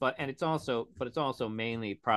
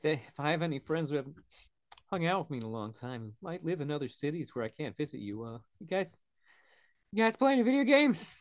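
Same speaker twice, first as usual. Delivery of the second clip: comically overdone, mournful, pitched-up sad voice; 5 semitones higher than usual. Asking friends in other cities to play video games, in a funny exaggerated sad voice. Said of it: "slightly funny, exaggerated, sad voice".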